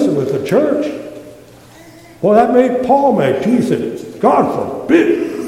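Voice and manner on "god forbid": hushed oath. Retold or imitated. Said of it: "That's the strongest you could say".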